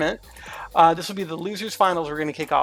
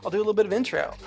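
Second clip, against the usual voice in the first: announcer voice. Acted. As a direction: announce it like a host. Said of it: "This is my announcer voice".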